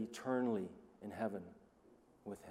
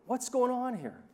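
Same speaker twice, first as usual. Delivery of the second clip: much higher, much louder stunned cry; astonished; 12 dB louder, slower than usual. Acted. John staring at the slain lamb, in loud stunned astonishment. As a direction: blurt it out, utterly bewildered. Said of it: "John is going".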